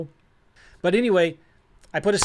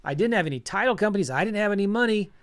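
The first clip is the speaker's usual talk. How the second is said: freaking out; 4 semitones higher than usual. Retold or imitated. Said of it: "Now I'm freaking out. I'm hyperventilating".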